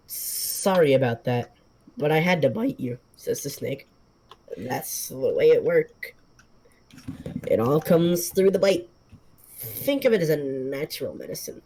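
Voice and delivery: a slow, unhurried snake's voice; calm old snake explaining its bite; talking snake. Acted. Snake explains the bite to the man, slow and calm.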